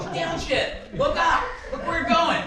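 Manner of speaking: high, loud burst of retold orders; imitated yelling. Dad barking orders during the driving lesson, imitated yelling. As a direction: imitate a frantic instructor yelling. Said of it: "He always yelled".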